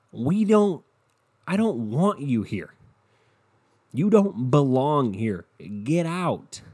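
a hint of an angry Mother Nature, drawn out. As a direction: speak as Mother Nature ordering them out.

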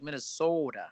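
lightly put-on Minnesota accent, long O near the end; mild Minnesota imitation. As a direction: lean on the Minnesotan O, softly. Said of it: "it's at the end".

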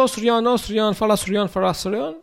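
high, sing-song mock calling; teasing call. Clerks at the tax office calling out to Soriano, high teasing. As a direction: coax him to talk like an islander. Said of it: "o pessoal começa".

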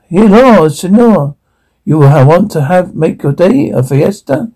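put-on Spanish-accented sales greeting; thick Latino accent. Salsa seller showing off the accent to customers, thick Latino accent. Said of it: "Your thick accent".

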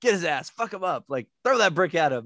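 egging on the fighter; hyped fan. Retold or imitated. First-time viewer cheering Craig's brick throw, hyped. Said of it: "I was like".

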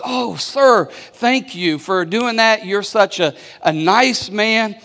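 lightly voiced mom, gushing over him; grateful mom.

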